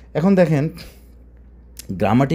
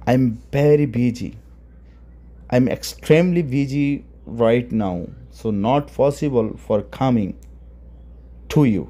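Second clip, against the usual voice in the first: slow deliberate English; much slower than usual. Shown as a demonstration. Teacher spelling out English meaning.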